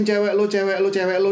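lightly acted teasing; mock taunting. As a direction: imitate kids chanting an insult. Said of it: "Lalu kalau dikatain".

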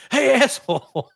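mocking voice. Friends kicking him out, mock.

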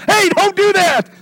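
high, slow forceful shout; loud warning. Retold or imitated. Wishing God would warn us loudly, slow shout. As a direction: yell it like a clear warning. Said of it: "you wish God would do that".

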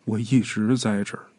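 an eerie hollow presence answering; low muffled voice from nowhere; muffled ghostly voice. A narrator's reading. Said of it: "一个沉闷的声音响起来".

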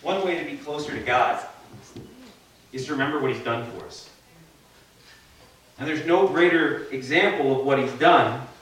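talking through a hand over the mouth; muffled speech behind the hand. Real, not acted. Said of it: "I may sound muffled for a minute".

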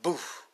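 short puffed boof; imitated impact. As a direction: mimic a burst of light hitting. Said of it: "it was like light hit me".

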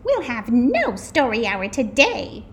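a hint of a no-nonsense schoolmistress; stern teacher. A narrator's reading. Strict substitute teacher gives orders.

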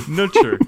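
"Nurture" as NOTCH-er, laughing; trying the word out. Shown as a demonstration. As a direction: try "Nurture" without its R, through a laugh. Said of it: "is that how you say it?".

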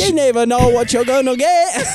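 high, hammed-up British accent. Friend jokingly redoes the chocolates line as British, hammed-up accent.

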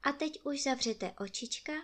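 very soft, hushed goodnight; soft bedtime goodnight. A narrator's reading. Storyteller sending the children to sleep, very softly. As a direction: tuck them in with a hush.

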